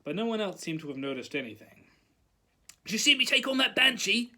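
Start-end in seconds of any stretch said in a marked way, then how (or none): 2.8-4.3 high, raised boasting voice; pupil's loud, eager brag; excited shout. A narrator's reading. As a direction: shout it proudly to classmates. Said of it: "shouted Seamus".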